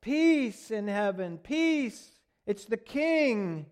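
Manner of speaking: high, loud, drawn-out acclaim; yelled praise. Acted. Crowd yelling praise to their king, high loud yell. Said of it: "they're praising and they're yelling".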